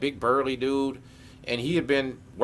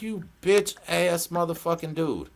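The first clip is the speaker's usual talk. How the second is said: mock indignant insult; 4 semitones higher than usual. Insulting guard after prank.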